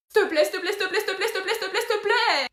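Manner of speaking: high, loud rapid-fire pleading building up; frantic begging. Acted. Angel begging the demon nonstop, frantic.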